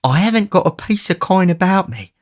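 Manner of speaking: submissive Fagin. Acted. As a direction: soothe him meekly. Fagin protesting.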